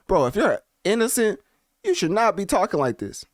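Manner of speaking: scolding the rapper, half laughing in disbelief; incredulous. Real, not acted. Reading a rapper's lawsuit response, incredulous scolding. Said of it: "reacting in disbelief to statement".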